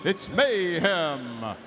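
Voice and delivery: slow, ominous movie trailer narration; drawn-out dramatic trailer announcer; horror trailer voice. Acted. Dramatic team intro, Alien parody.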